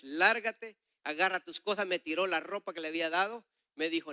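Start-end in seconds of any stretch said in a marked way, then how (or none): 0.0-1.9 angry dismissal. Retold or imitated. Man angrily orders preacher away.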